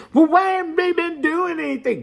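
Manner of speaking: high, mocking voice of a doubting viewer; mock doubter. Voicing a sceptical viewer's complaint, high and mocking.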